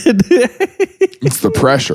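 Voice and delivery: slow, high, strained delivery; slow dramatic. Pretend. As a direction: drag it out under strain. Mock dramatic excuse.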